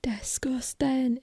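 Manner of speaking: put-on drawn-out, slow Scottish accent; Scottish lady impression. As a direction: imitate an appalled Scottish woman. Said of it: "that lady that was like".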